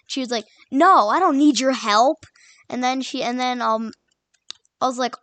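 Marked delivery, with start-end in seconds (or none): 0.7-2.2 louder, mock-indignant retort; snappy refusal. Classmate turning down help in math class, snappy. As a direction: imitate a classmate brushing off help.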